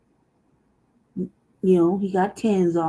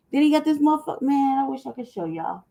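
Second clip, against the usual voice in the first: ordinary talk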